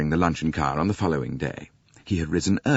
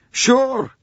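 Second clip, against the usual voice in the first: put-on Italian accent; 7 dB louder than usual. Italian agrees loudly.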